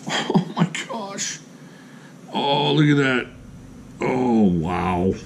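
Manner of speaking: breathless laughing gasp, slow and soft; real giddy laugh, mostly breath; laughing delight. Real, not acted. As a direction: laugh it out in disbelief. Delighted by favorite knife.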